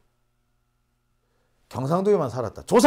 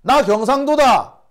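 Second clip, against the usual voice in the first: slow, higher, louder, each word pressed; emphatic declaration; 6 semitones higher, 6 dB louder than usual. Retold or imitated. Declaring his origin to preempt critics, emphatic. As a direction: announce it firmly. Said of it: "그 얘기하려 또 했던 거예요".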